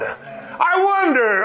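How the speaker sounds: drawn-out high wonder; slow musing. Real, not acted. Preacher drawing out a question to the congregation. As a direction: stretch it out thoughtfully.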